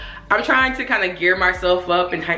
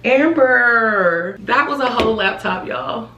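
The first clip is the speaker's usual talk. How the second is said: higher, loud alarmed call-out; raised, shaken exclaim; 4 semitones higher, 3 dB louder, slower than usual. Real, not acted. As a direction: call out in shock. Laptop nearly fell.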